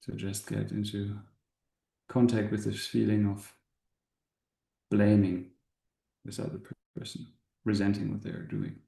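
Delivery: calm guide, long pauses between short phrases; spacious meditation voice, settling at phrase ends; guided meditation. Acted. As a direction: gently lead an inward contemplation, unhurried. Leads a meditation.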